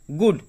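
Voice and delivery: गुड in one unbroken syllable; गुड as a single piece; said without break. Shown as a demonstration. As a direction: say गुड continuously, with no stop inside. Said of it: "continue बोले".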